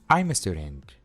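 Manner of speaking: "I'm a student" with M carried into a; fuse "I'm a" smoothly; one linked phrase; linked demo. Shown as a demonstration. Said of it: "simplemente los unimos".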